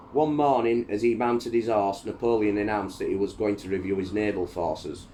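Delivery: dramatic history read-aloud with emphatic line openings; book narration. A narrator's reading. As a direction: read it out like a storyteller.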